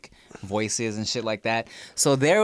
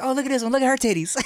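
high put-on voice with laughter; mimicked star; 14 semitones higher, much faster than usual. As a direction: imitate a star ogling, pitched way up. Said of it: "he'd be like".

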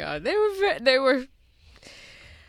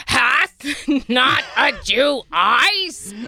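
declaiming shout; much slower than usual. Pretend. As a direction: bellow it on stage. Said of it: "I like how you do that iambic pentameter".

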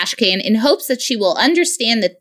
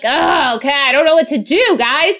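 exasperated sarcasm; 5 semitones higher than usual. Retold or imitated. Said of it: "And I'm like".

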